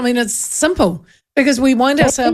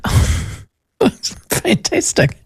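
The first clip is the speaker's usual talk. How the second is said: mock delight; 8 semitones higher, much slower than usual. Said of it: "And I was like".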